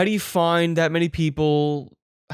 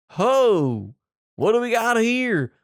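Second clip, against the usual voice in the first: vacationer voice; 5 semitones higher, 3 dB louder, slower than usual. Acted. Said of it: "You go".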